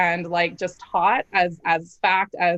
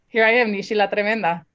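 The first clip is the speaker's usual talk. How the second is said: laughing proudly. Real, not acted. Proud self-introduction, laughing.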